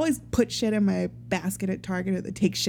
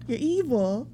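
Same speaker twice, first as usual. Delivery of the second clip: ordinary talk, nothing marked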